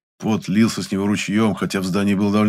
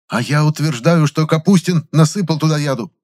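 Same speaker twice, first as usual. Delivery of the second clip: brazen insistence; 9 semitones higher, 6 dB louder than usual. A narrator's reading. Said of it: "нагло глядя".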